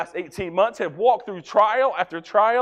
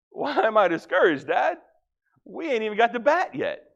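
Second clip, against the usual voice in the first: son's voice; 5 semitones higher than usual. Retold or imitated. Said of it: "And he's like".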